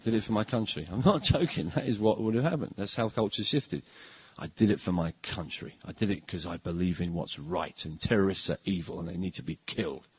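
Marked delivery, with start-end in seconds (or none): 0.0-0.9 put-on old-style hero line. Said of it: "That's what he would have said". 4.4-10.1 put-on old-style hero line. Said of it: "That's what he would have said".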